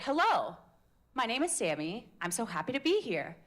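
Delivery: "Hello" dips, then steadier settled tune; evener melody. Shown as a demonstration. Coach contrasts a steadier intro for the class. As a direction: say it with a calmer falling line. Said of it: "Or is it".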